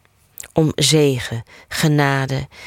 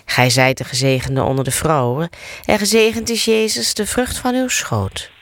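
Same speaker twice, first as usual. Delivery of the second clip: measured, rhythmic prayer recitation; rosary prayer; 3 semitones higher than usual. Acted. Leader reciting the rosary with listeners, steady prayer cadence. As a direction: recite the Hail Mary as a familiar chant.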